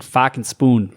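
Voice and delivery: slow Boston accent phrase. Shown as a demonstration. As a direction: drop the r, say fucking spoon Boston style. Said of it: "Like for, like, for Boston".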